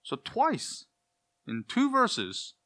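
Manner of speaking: high, slowed emphasis on "twice"; emphatic. Real, not acted. Preacher drives home the double command, high and slow. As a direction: lift the voice high to underline the repetition. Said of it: "You do it for emphasis".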